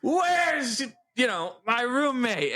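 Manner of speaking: put-on high, drawn-out drunken call. Retelling a drunken search for a roommate, high tipsy call. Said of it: "I got so fucked up that night".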